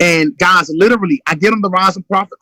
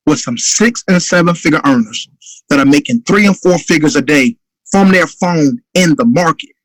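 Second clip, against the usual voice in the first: urgent phone pitch; 2 semitones lower than usual. Shown as a demonstration. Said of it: "this urgency you hear in my voice".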